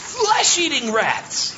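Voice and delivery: high, slow, dramatic rat warning; slow spooky emphasis; dramatic pirate. Acted. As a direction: stretch it out for horror.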